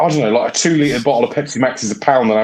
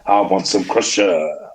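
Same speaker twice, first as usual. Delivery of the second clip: slow, low drawn-out craving; mock craving; 5 semitones lower, slower than usual. Playing with an old milkshake name, mock craving. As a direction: drag out the last word.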